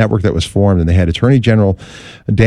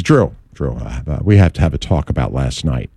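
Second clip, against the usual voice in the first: stern boss; 8 semitones lower than usual. Retold or imitated. Boss calls about the show.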